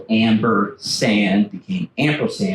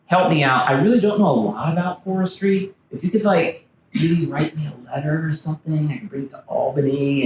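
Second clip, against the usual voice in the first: pleading for help; 4 semitones higher than usual. Retold or imitated. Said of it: "So he said".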